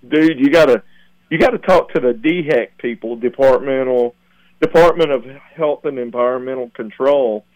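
winded, pushing words out between breaths; short of breath. Real, not acted. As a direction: talk while struggling to get air. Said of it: "I'm still just a little bit short of breath".

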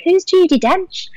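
put-on high, loud child's question; puzzled nine-year-old. Actress recalls asking her mum as a child, puzzled and high. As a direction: pipe up as a baffled little kid. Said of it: "I was only, like, nine".

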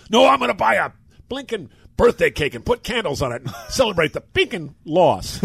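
high, loud mock-bitter rant; hammed-up sarcastic fury about a cake; sarcastic outburst. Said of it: "And he goes".

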